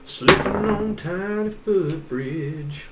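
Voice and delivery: high, slow, drawn-out announcement of the slip; dramatic slip narration. Acted. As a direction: stretch it out like a slow-motion fall.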